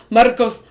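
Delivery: imitating a barely rolled R in "Marcos"; failed rolled R. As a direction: say "Marcos" with only a weak tap for the R. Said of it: "tries to, like, roll his R's".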